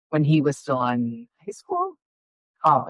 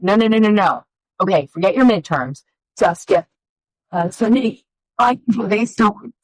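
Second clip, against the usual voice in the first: louder, rising, insistent mom pushing her son; retold frantic plea, higher and louder; urgent insistence; 5 semitones higher, 4 dB louder than usual. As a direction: brush off his excuse and push harder, climbing higher. Mom pleading with son over songs.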